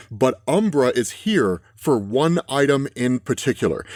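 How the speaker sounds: slow, deliberate comic narration; dramatic caption reading. Acted. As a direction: read the caption like a slow dark trailer. Reads comic captions slowly.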